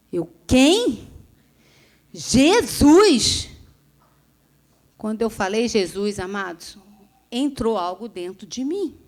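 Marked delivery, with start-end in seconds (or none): 0.5-3.5 forceful cry. Retold or imitated. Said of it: "falei aquele Jesus com tanta força".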